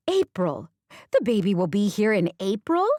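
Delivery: a touch of giddy excitement, rising question; delighted disbelief at the date; thrilled. Acted. Grandmother-to-be clapping, thrilled question about April.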